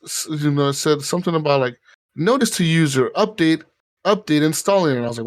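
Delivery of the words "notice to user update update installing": robotic announcement. Retold or imitated. Retelling the gun's system announcement.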